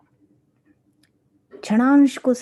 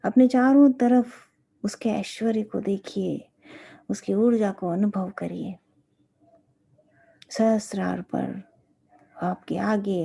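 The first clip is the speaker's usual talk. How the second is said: guided meditation; 3 dB quieter than usual. Real, not acted. Teacher leading disciples to meditate on the guru, guided meditation. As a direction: guide them gently, phrase by phrase.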